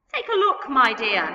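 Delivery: lightly voiced old man; creaky old man. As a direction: tempt the boy with a laugh. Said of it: "he said".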